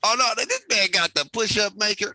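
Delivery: loud, high hype shout; excited shout. Real, not acted. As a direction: shout it out in disbelief. Shouts at push-up display.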